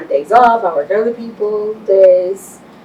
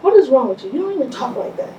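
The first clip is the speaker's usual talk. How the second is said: high-pitched imitation of a baffled friend; retold bewildered reproach; 7 semitones higher, faster than usual. Guest retelling a friend's reaction, mock bewilderment. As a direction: mimic a friend taking someone to task, pitched up.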